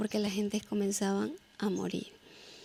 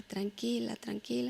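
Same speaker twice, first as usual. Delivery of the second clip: soft whispered tranquila, barely voiced; hushed reassurance; 6 dB quieter than usual. Husband whispering to calm his buried wife. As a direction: hush her gently, almost no voice. Husband hushing her under rubble.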